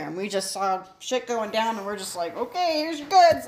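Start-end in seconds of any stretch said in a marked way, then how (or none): 2.4-3.5 nervous laughing quote. Retold or imitated. Nervous retold sailor quote.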